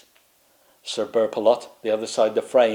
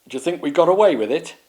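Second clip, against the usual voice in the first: hopeful knight; 5 semitones higher, 3 dB louder, faster than usual. Acted. Burpalot asks the knights.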